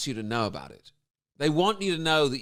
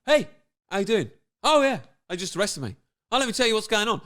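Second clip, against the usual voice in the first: lightly hammed sitcom aside; a hint of cheesy sitcom host; mock talking to camera; 5 semitones higher, 4 dB louder, faster than usual. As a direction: chat to an imaginary audience, mockingly. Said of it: "they stop and they talk to the camera".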